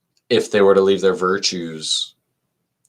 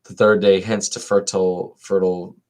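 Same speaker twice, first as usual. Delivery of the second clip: dialogue read aloud; 2 semitones higher than usual. Acted. Reader voicing Crito and Socrates for listeners, lilting read-aloud.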